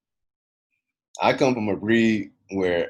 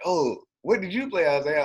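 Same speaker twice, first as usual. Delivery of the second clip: higher-pitched mimicked question; lightly mocking high inquiry; imitated curious girl; 8 semitones higher than usual. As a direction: put on a girl's high, curious voice. Voices a girl's question in story.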